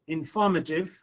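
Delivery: inFORmative, with FOR the strongest syllable; stress on FOR. Shown as a demonstration. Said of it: "why should we give stress on for".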